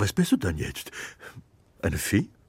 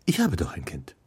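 whisper; 9 semitones lower, faster than usual. Acted. Geppetto whispering tenderly to his wooden son. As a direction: breathe it tenderly, almost no voice.

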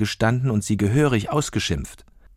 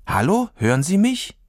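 much higher, louder call into the dark; girl calling into the garbage truck, higher and louder; calling into the opening; 10 semitones higher, 3 dB louder than usual. Acted. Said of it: "rief sie in die dunkle Öffnung hinein".

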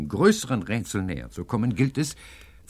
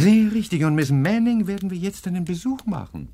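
higher, louder triumphant; 10 semitones higher, 7 dB louder than usual. Acted. Professor to Hedge, triumphant. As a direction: crow with certainty.

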